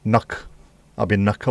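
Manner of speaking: "Nuck" with a short New Zealand "uh" vowel. Shown as a demonstration. Speaker showing how New Zealanders would say the name, "Nuck" in Kiwi vowels. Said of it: "the way they talk is bizarre".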